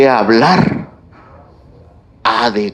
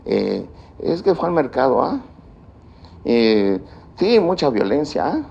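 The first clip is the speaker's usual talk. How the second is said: imitando el habla de la gente; 7 dB quieter than usual. Retold or imitated. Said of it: "oigo que la gente dice".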